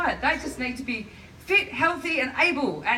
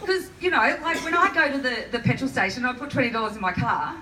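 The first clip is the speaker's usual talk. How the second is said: mock ditzy self; 3 semitones higher than usual. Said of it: "that last one was me".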